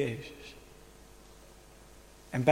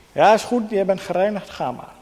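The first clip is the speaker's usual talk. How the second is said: nonchalant afschepen; 3 dB louder than usual. Pretend. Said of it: "En Jezus doet niet dit".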